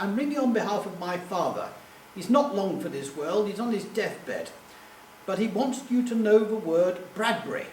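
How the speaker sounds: lightly imitated posh English caller; a hint of upper-crust English. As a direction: put on a mildly posh telephone voice. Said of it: "this very posh voice said".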